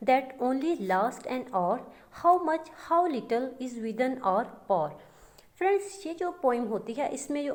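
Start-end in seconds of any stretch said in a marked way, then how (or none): 0.1-4.9 slow, measured poetry reading; a teacher reading verse aloud to the class; poem recitation. Shown as a demonstration. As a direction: recite each line slowly and deliberately. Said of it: "example ये है कि".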